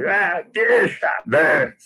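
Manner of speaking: high drawn-out mock shout from the crowd; a high, slow jeering call from the back rows; audience shout. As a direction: yell it slowly like a rowdy cinema crowd. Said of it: "Eles jogavam laranja na tela".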